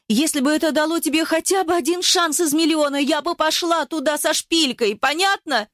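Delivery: high, fierce, insistent woman's voice; Eva, fierce and defiant. Acted. Eva grabs Ruslan's shirt and insists, fierce high voice. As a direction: drive the point home, daring him.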